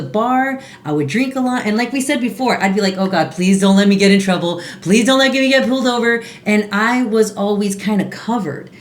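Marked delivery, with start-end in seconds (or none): 3.0-6.2 quick mock plea to God; retold pleading prayer. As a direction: rattle off a hurried little prayer, imitated. Retold panicky prayer while driving drunk.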